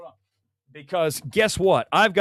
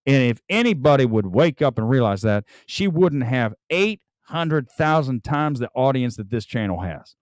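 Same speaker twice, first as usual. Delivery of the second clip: Dusty Rhodes; 3 semitones lower than usual. Pretend. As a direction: cut a mild Dusty Rhodes promo. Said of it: "now I sound like Dusty Rhodes".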